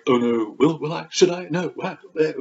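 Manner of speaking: high, fluttery indecision; mock dithering heroine. Reader playing heroine unsure of her suitor, high mock dither. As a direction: waver theatrically between yes and no.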